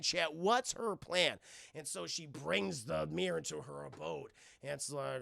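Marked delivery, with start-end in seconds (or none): 0.3-1.4 slow, drawn-out rhetorical question; deliberate repeated question. Real, not acted. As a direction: let the puzzle hang, word by word.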